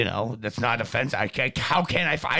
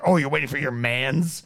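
mock cop slang; 4 semitones lower than usual. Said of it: "typical white person shit".

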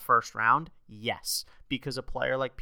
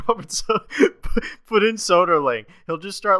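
excited rant; 8 semitones higher, 9 dB louder than usual. Real, not acted.

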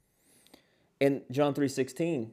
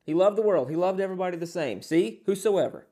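mock triumphant objector; 3 semitones higher, 3 dB louder than usual. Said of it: "We say".

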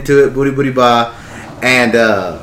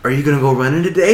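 teasing question; 5 dB quieter than usual. Retold or imitated. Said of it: "I said".

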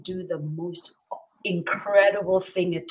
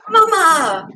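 loud, high joyful cry of greeting; joyful exclamation; 9 semitones higher, 13 dB louder than usual. A narrator's reading. Uncle greeting Nana with open arms, joyful loud cry. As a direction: call out with delight. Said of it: "he exclaimed".

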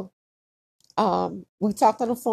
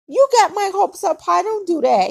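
higher, louder imitated scolding father; mock scolding dad; 10 semitones higher, 6 dB louder than usual. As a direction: play the let-down dad telling her off. Dad scolding about false hopes.

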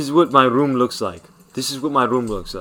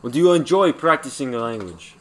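put-on Ukrainian accent; 3 semitones lower than usual. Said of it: "respond in the same accent".

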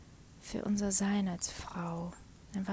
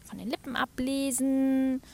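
loud mock complaint, higher; retold reproach; 4 semitones higher, 5 dB louder than usual. Partner complaining she never speaks, loud mock reproach. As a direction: throw the accusation back at her, higher and louder. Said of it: "oder bekomme dann zu hören".

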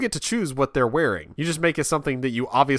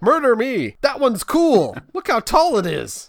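put-on excited kid; 10 semitones higher, 3 dB louder than usual. Voicing the son choosing.

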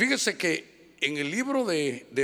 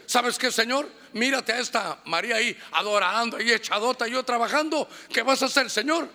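whiny, indignant higher complaint to the Lord; complaining Martha; 4 semitones higher than usual. Retold or imitated. Martha complains to the Lord about Mary, indignant. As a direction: nag the Lord like a put-upon sister. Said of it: "Mire cómo estaba de abusiva".

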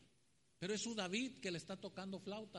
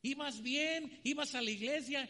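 higher, louder worried questioning; concerned neighbor; 6 semitones higher, 5 dB louder, slower than usual. Retold or imitated. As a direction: press her friend kindly. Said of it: "la vecina le dijo". (la vecina le reclama preocupada, aguda y fuerte)

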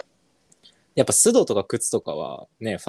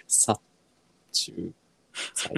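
殺 虫 剤 split into three slow syllables with pauses; slowly; 4 semitones lower, 8 dB quieter, much slower than usual. Shown as a demonstration. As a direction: draw out 殺虫剤 one syllable at a time. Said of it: "殺虫剤ってゆっくり言ってみて".

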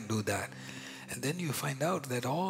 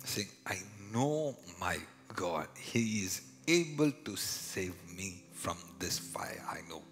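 hushed; 3 semitones lower, 6 dB quieter than usual. Real, not acted. Hushed quoting of faith.

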